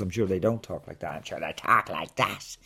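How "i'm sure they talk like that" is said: mock Dublin accent, a little lower. Shown as a demonstration. Comedian showing how the officials talk, Dublin accent. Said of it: "talk in Dublin accents".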